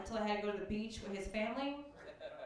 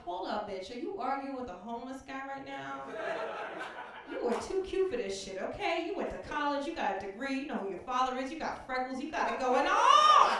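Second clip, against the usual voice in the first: self pep talk; 4 dB louder than usual. Retold or imitated. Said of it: "I had to check myself".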